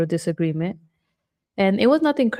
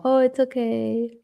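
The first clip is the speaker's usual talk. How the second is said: higher, slow, drawn-out soothing; imitated reassurance; 6 semitones higher than usual. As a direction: lightly act out comforting the kids. Voicing a parent reassuring kids.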